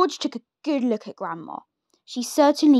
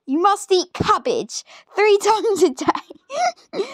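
breaking into laughter mid-line; can't keep a straight face; laughing; 8 semitones higher, slower than usual. Real, not acted. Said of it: "Sorry, guys, it's funny".

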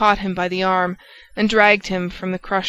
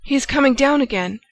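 higher, louder alarmed cry; sudden exclamation; 6 semitones higher, 4 dB louder, faster than usual. A narrator's reading. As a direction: blurt it out as she sees him coming. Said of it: "Suddenly she exclaimed".

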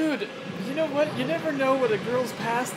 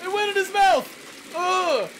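high, slow, louder cry; shocked disgust; 8 semitones higher, 4 dB louder, slower than usual. Real, not acted. Gamer recoils as scorpion enters mouth, high cry. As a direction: recoil at the sight.

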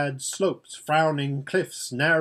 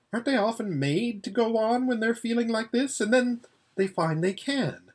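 timid mare voice; 5 semitones higher than usual. Acted. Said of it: "said Hwin very shyly".

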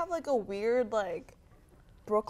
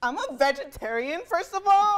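angry; 3 semitones higher, 5 dB louder than usual. Acted.

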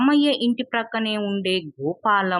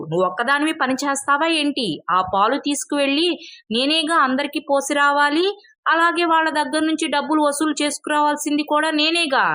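higher, insistent quarrelling voice; a bit louder; 5 semitones higher than usual. Acted. Mother-in-law arguing back at daughter-in-law, higher and insistent. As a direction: top her, pitch up and insist. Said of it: "ఇంకాస్త గట్టిగా అంది".

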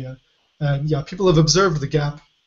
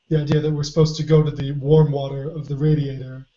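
hoarse voice. Real, not acted. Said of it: "I really am losing my voice".

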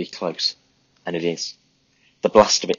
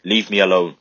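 loud angry shout; 6 dB louder than usual. Acted. Grieving woman shouts at Tommy before slamming the door, loud fury. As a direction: Leave hit hard and loud, falling away.

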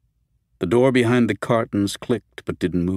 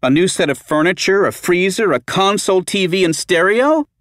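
high, loud, slow furious outburst; calm turning angry; 10 semitones higher, 7 dB louder than usual. Acted. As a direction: let the anger boil over. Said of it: "her voice rising in anger".

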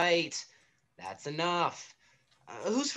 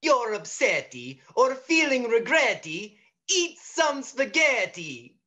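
put-on Italian accent; 3 semitones lower than usual. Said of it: "That was totally Italian".

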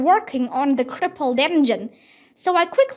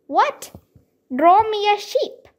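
higher, baffled questioning; startled disbelief; 7 semitones higher than usual. A narrator's reading. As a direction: repeat it back in astonishment. Startled pilot woken in desert.

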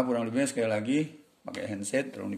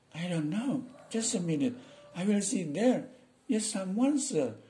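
servant voice; 9 semitones higher, slower than usual. Acted. Servant answering his boss.

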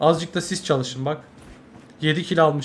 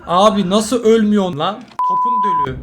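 angry outburst; 2 semitones higher, 3 dB louder than usual. Real, not acted. Enemy refuses to die.

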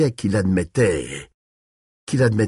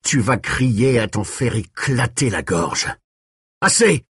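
yelled; 3 semitones higher than usual. A narrator's reading. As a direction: cut in with a raised yell. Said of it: "hurla Callahan".

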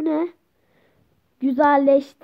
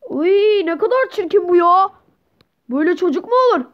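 raised, exclaiming disgust; 4 semitones higher, 3 dB louder, faster than usual. Acted. Parent recoils from the ugly newborn child, disgusted. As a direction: play it as an appalled, repelled parent.

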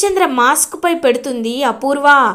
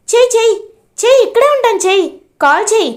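sneering dare, again and again; mocking taunt; 7 semitones higher, faster than usual. Apoorva dares KP to phone the ACP, mocking taunt.

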